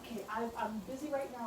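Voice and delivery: calling out through a closed door; muffled, called through the door. Real, not acted.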